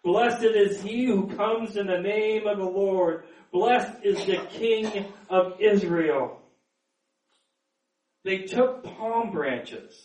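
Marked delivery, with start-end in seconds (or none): 0.0-6.4 understated shouted praise; mild crowd shout. Acted. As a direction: proclaim it like a welcoming crowd, not quite shouting.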